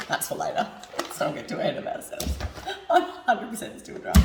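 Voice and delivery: hushed, confiding whisper; whispered aside. Real, not acted. Hungover host confiding to viewers in a whisper. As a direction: lean in and whisper it.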